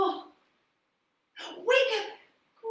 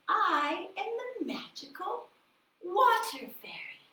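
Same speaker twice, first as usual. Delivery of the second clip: lightly higher fairy voice ending in a whisper; water fairy; 6 semitones higher than usual. Acted. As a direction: enchant them, then whisper the request. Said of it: "The voice said".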